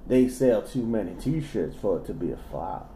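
lightly classy southern read; genteel Southern narrator; southern accent. Pretend. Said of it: "my southern voice".

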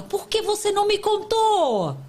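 pai cobrando, bem mais agudo; acusando a criança. Retold or imitated. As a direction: pergunta indignada de pai, aguda. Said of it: "que muitos falam". (pai repreendendo o filho por não ter contado, em tom agudo e indignado)

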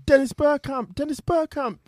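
high, excited football commentator imitation; mock commentator scream. Imitating the commentator at a World Cup goal, mock high scream. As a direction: cry the player's name out like a commentator. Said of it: "just screaming".

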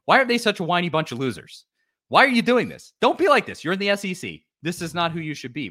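high, loud mocking whine at rival fans; mock whiny fan. Tennessee fan mocking whiny Auburn fans, high whine. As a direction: whine it like a sore loser. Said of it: "we're basically saying".

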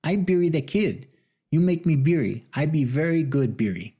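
high, broad put-on Asian accent; thick Asian accent. Elderly man pitches his Billy the Kid role, thick Asian accent. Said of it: "in an Asian accent as thick as Texas toast".

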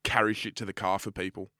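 low, quick, offhand resolve; muttered tough-guy confidence; cocky kid. Retold or imitated. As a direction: imitate a self-important kid. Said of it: "And I was like".

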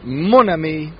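put-on speaking French in an English-speaker's French accent. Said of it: "offensive French accent".

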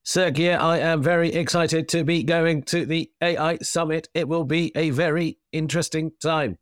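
stiff, even robotic delivery. Pretend. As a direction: talk like an algorithmic robot. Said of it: "some sort of, um, algorithmic robot".

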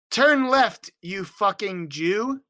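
hammy cartoon-boy GPS voice; Cartman voice. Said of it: "Is your G P S voice Cartman".

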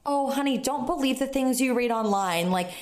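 lightly voiced sweet comforting lady; imitated kindly reassurance. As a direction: gently reassure like a kind stranger. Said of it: "Her niceness is making me cry harder".

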